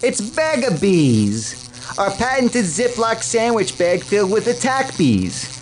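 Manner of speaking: lightly voiced, upbeat ad pitch; ad spokesman. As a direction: sell it like a cheesy TV ad. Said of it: "a word from our sponsors".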